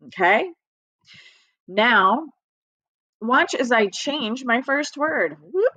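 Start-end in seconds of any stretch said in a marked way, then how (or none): none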